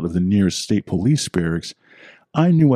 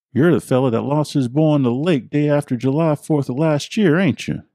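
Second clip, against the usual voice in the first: put-on much higher, gently probing old local; old man with accent; 7 semitones higher than usual. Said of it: "Henry asked".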